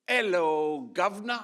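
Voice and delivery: loud, high, cheery Hello governor; loud mock greeting. Friends calling out loudly to the priest. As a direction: call out the greeting in a mock British way. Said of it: "very loudly".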